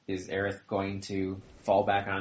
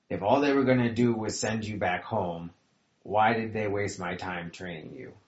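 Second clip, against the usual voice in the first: sharp, louder angry rebuke; anger; 2 semitones higher, 5 dB louder than usual. Acted. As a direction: scold him for wasting her time. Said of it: "it sort of changes to anger".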